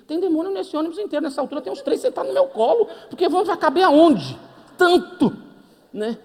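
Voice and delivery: high, loud, laughing panic; cracking up at the demons; hammed-up laughing alarm.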